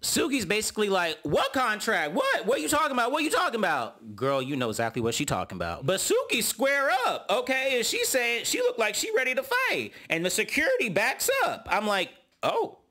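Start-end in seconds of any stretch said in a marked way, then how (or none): 1.2-4.1 high, incredulous squawk; mock disbelief. Suki feigning confusion. 12.4-12.8 very high, startled "Oh."; shocked oh. Real, not acted. Narrator sees fight start.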